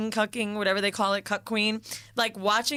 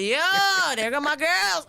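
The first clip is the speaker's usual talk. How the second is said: put-on Jamaican accent; 7 semitones higher, 4 dB louder than usual. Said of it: "he was like".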